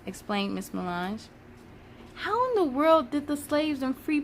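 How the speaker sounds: put-on reading a children's book aloud, lively; story narration. Storyteller reading a history picture book to children, lively. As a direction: read it like storytime for kids.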